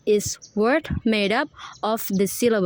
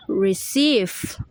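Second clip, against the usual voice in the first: "receive" with a long, strong second syllable; stress on CEIVE; 2 semitones lower than usual. Shown as a demonstration. Student showing primary stress, CEIVE leaned on in "receive". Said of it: "and primary stress is".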